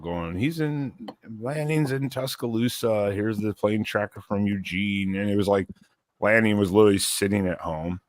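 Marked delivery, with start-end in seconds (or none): 0.4-5.2 pitched-up retelling of frantic fans; mock freak-out. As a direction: imitate fans freaking out, stretching the words. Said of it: "everyone's freaking out".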